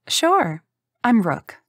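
sudden high chirpy sure; eager to please; bright fake cheer. Rook introducing herself to Hank, high chirpy.

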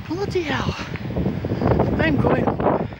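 a long breathy sigh on arriving worn out; worn-out groan after a four-mile walk; tired sigh. Real, not acted. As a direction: let the walk's tiredness out in a sigh.

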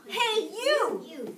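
loud, high, picking a fight; grouchy challenge. A narrator's reading. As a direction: bark it out like a tiny bully. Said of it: "said the grouchy ladybug".

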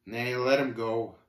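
subdued, drawn-out refusal; sad. Acted. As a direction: let it go regretfully. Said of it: "shook his head sadly and answered".

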